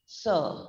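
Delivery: SIR as an isolated "suh", tongue behind the teeth; S sound. Shown as a demonstration. Teacher demonstrates the S sound, SIR as "suh". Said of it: "keeps the tongue behind the teeth".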